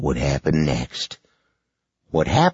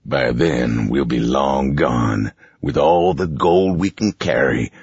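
villain monologue. Acted. Boss monologue.

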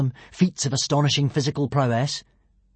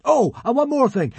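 high, loud godly demand; booming, commanding proclamation; crying out; 9 semitones higher, 5 dB louder than usual. A narrator's reading. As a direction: demand it grandly as a god. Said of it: "cried Hiccup".

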